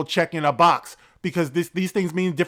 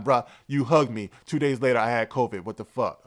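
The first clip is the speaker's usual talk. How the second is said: teasing a friend; 4 semitones lower than usual. Retold or imitated. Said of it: "I tease him about that".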